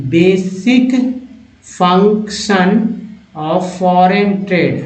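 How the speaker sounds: slow, emphatic word-by-word English reading; slow model reading. Shown as a demonstration. Teacher reading the trade passage aloud for learners, slow and deliberate. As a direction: stretch and separate every word for learners.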